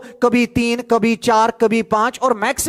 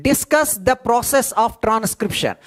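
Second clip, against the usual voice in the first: slow, spelled-out dictation pace; much slower than usual. Shown as a demonstration. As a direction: give the definition word by word for notes. Exam question dictated.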